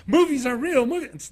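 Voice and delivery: high, loud mock proclamation; telling everybody. Girl telling everybody at her high school, calling out. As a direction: imitate an excited girl spreading the word. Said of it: "running around American Fork High School telling everybody".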